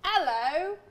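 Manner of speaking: high, loud would-be British greeting gone Australian; Australian-sounding accent. Shown as a demonstration. Trying British for friends, loud Australian-sounding hello. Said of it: "That's Australian".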